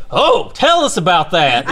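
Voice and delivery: high, loud, gushing Southern imitation; fascinated Southerner. Imitating locals fascinated by Australian visitor, gushing Southern voice. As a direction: squeal with mock Southern fascination. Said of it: "They're like".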